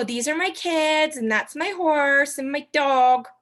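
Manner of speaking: mock over-explaining. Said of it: "You don't have to go".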